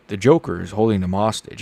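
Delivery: deadpan it like a stoic hero; monotone Batman. Retold or imitated. After a failed try, retrying the Batman voice in monotone. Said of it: "He sounds very, like, monotone".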